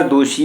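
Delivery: ਦੋਸ਼ੀ with sh, not s; sh sound. Shown as a demonstration. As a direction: make the middle of ਦੋਸ਼ੀ a clear sh. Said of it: "ਦੋਸ਼ੀ ਦੇ ਸੱਸੇ ਪੈਰ ਬਿੰਦੀ ਲਗਾਓ". (ਦੋਸ਼ੀ ਵਿੱਚ ਸ ਨਹੀਂ, ਸ਼ ਬੋਲੋ)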